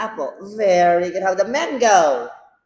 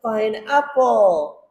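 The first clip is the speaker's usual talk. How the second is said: slow modelling; 3 semitones higher, much slower than usual. Shown as a demonstration.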